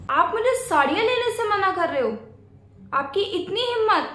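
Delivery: how dare you, said up high; indignant outburst. Acted. Sister-in-law takes offence. (ऊँची आवाज़ में नाराज़गी)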